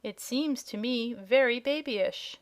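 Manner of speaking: slow, unhurried drawl that stretches every word; lazy drawl. Acted. Dragonette tells Dorothy sixty-six is babyish, slow drawl. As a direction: drawl it out as if barely bothered. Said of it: "drawled the dragonette".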